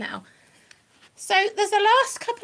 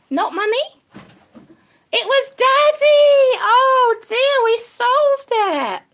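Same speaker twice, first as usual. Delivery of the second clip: louder, higher, slow dramatic announcement; triumphant reveal; 6 semitones higher, 7 dB louder, much slower than usual. Pretend. Owner reveals the pumpkin culprit to her rabbit, triumphant. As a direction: unveil the culprit like a grand detective.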